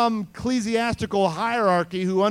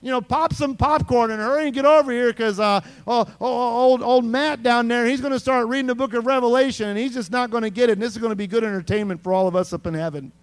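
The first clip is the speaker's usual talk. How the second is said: excited host; 3 semitones higher, 5 dB louder than usual. Pretend. God calls archangels to watch Matt, excited and louder. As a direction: call the angels over for a show. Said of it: "It's like".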